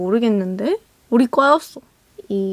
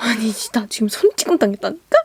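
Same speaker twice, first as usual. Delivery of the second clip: mock angry, fuming huffing. Retelling a fight after a friend pulled the speaker away, mock angry huffing. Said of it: "제가 씩씩거리면서".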